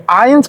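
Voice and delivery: "eins" opening on an A sound; begun with A. Shown as a demonstration. Teacher shows learners eins is said as if starting with A, begun with A. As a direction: say "eins" as if it began with A. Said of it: "como si empezara con A".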